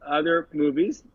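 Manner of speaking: words around a cigarette; cigarette in mouth. Real, not acted. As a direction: talk while smoking a cigarette. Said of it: "I'm smoking a cigarette right now".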